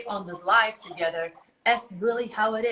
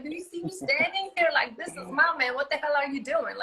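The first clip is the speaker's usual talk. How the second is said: raised pitch, mock-confrontational challenge; indignant retort; 5 semitones higher than usual. Wife telling off woman eyeing her man, indignant. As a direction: indignantly stake your claim, pitched up.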